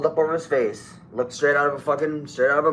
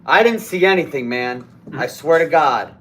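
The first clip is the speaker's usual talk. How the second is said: retold plea; 5 dB louder than usual. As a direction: plead innocence to an armed robber. Pleading with armed robber in story.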